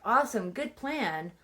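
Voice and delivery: eager mock agreement with a lilt; gladly agreeing. Classmates go along with Charlie's plan, gladly. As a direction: lightly imitate kids happily on board.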